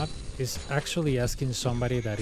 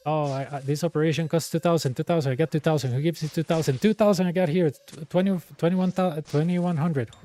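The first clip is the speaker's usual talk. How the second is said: a hammed-up street vendor, louder and higher, haggling the price down; mock haggling; 4 semitones higher, 5 dB louder than usual. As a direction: bark out the numbers like a market seller. Mock haggling over operation price.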